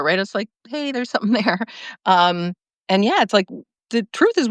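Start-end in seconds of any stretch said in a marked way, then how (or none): 0.7-1.6 lightly voiced gentle heads-up; gentle nudge. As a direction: tap them lightly on the shoulder with it. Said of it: "I'm a gentle tapper".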